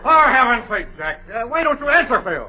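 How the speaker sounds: high, loud plea; fed-up director losing patience; exasperated scolding. Acted. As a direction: demand an answer from him. Director scolds the silent actor.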